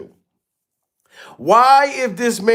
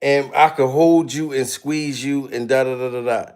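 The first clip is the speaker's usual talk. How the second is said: mock seductive come-on; 5 semitones lower than usual. Tyler sweet-talking the man into bed, a mock seductive purr. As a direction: purr it like a half-joking seduction.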